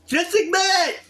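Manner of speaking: high, exasperated demand. Real, not acted. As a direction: snap it out, fed up. Ranting at JoJo.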